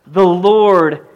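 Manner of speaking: ordinary talk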